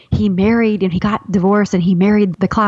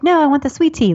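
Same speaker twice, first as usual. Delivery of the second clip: ordering at drive-through; 8 semitones higher than usual. Retold or imitated. Friend ordering mid-call.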